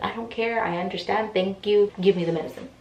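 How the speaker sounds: mild mock yell; impatient, cutting someone off; retold yelling. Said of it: "I started yelling".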